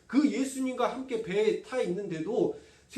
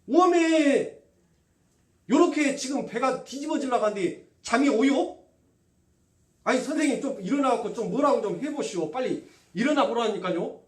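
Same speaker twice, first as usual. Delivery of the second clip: loud, high panicked Jeolla-dialect disciples shouting at Jesus; 3 semitones higher, 7 dB louder than usual. Acted. Frightened disciples wake Jesus in the storm, loud Jeolla dialect pleading. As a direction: yell at the sleeping teacher in thick Jeolla dialect. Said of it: "우리 전라도 말로 하면 그랬을 거 아니에요".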